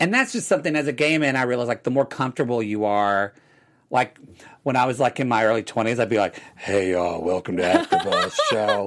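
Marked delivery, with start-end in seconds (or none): 6.6-8.9 low, animated, butched-up put-on macho host voice. Retelling how he spoke in his early twenties: imitating his butched-up younger self. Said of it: "'Cause you're trying to butch it up".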